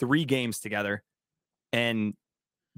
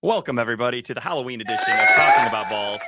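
announcer voice; 2 semitones higher, 5 dB louder than usual. Acted. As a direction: boom it out like a host. Hyped show welcome.

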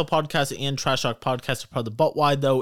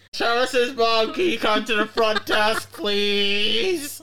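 intercom announcement; 8 semitones higher, 4 dB louder, slower than usual. Acted. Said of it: "he gets the microphone and goes".

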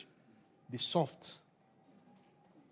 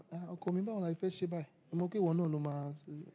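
higher, lightly voiced coaxing wife in Yoruba; a wife coaxing her husband in Yoruba, higher and gentle; 4 semitones higher, 3 dB quieter, much faster than usual. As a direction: play the soft-spoken wife winning him over. Voicing a sweet wife to husband.

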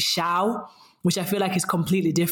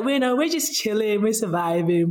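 laid-back chilling; 4 semitones higher than usual. Shown as a demonstration. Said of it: "when I say it in, like, in Tashinga Matewe, it's like".

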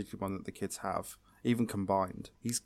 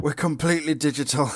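higher, put-on dramatic realisation; mock amazed reveal; 4 semitones higher, 4 dB louder than usual. Co-host joking about the digital-world reveal, mock amazement. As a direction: play up the shock of discovery. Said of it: "he does the big reveal".

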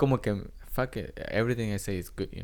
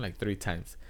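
normal talking voice

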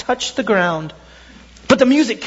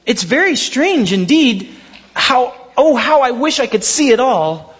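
put-on a lightly raised, wondering childlike voice; little tree voice; 4 semitones higher than usual.

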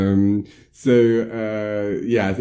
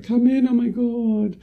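shocked; slower than usual. Retold or imitated. Rochelle shocked at door.

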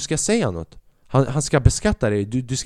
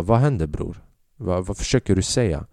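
lower, bass-heavy challenge; with more bass; 6 semitones lower than usual. Shown as a demonstration. Showing guys how to talk with bass, low challenging voice. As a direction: drop the voice low and square up. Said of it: "att säga det med mer bas".

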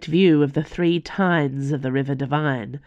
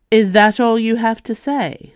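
higher and louder, an angry challenge; angry outburst; 8 semitones higher, 7 dB louder than usual. Acted. Calderon confronting Icaros about Calix, angry outburst. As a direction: fling the question at him in outrage.

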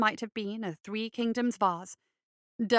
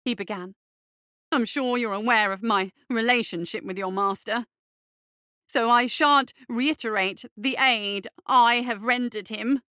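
pompous fop voice; 4 dB louder than usual. Acted. Derber character voice.

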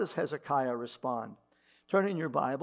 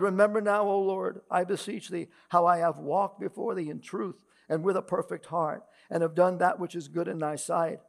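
higher, louder earnest plea to God; pleading prayer; 3 semitones higher, 5 dB louder than usual. Acted. Dying king Hezekiah pleads with God, raised earnest voice. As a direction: voice the sick king begging the Lord.

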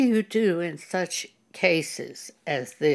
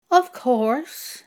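casual, offhand "of course", pitched a bit higher; flippant tone; 5 semitones higher than usual. Retold or imitated. Boyfriend brushing off the pastor's question, flippant. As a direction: toss it off as if it's obvious. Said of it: "that was his tone of voice".

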